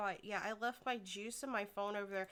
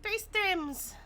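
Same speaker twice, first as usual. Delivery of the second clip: high, loud shout; excited call-out; 12 semitones higher, 10 dB louder, much slower than usual. Real, not acted. Player calling out three stims, high shout.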